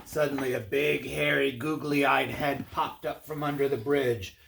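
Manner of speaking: lively, projected read-aloud voice; animated storyteller; storybook narration. A narrator's reading. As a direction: read it like a picture book to children. Reads a tale to children.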